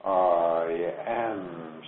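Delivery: a touch of tears in the affirmation; moved, tearful. Acted. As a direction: voice catching on "I am". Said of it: "she says".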